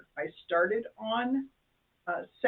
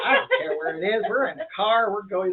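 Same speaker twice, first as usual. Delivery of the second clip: loud, lightly voiced eager dog; excited dog's attitude; 6 dB louder than usual. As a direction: play a happy-to-go dog, a bit louder. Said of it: "It's kinda like the dogs".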